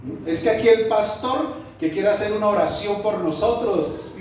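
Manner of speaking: sarcastic. Retold or imitated. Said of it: "y como riéndose".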